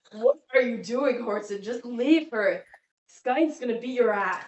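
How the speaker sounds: a lightly voiced nagging inner voice, slightly set apart. Game master voices the character's inner voice, mildly urgent. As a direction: mutter it like the doubt in his own head. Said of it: "The voice in your head says".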